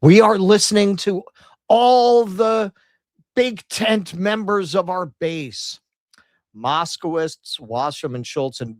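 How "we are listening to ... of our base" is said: high, loud mock politician's pandering voice; mock establishment Democrat reassuring voters. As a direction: ham up a politician assuring the base. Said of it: "throw that guy in to say".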